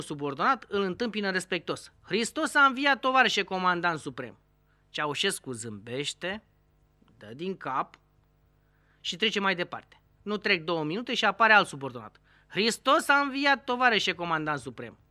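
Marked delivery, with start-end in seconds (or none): 2.0-4.4 respectful greeting. Acted. Subordinate greets Ceaușescu respectfully. 12.5-15.0 respectful greeting. Acted. Second subordinate repeats greeting.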